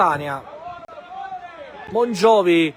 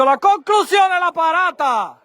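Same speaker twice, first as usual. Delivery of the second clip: sudden high burst on the save; rising excitement over a shot; excited commentary; 8 semitones higher, 3 dB louder than usual. Real, not acted. Live goal-mouth action call. (telecronaca concitata)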